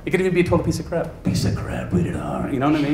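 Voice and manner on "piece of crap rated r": a hint of movie trailer announcer, softer; lightly voiced trailer narrator. Comic mimicking a trailer announcer for an audience, trailer voice. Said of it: "does the movie trailer voice guy".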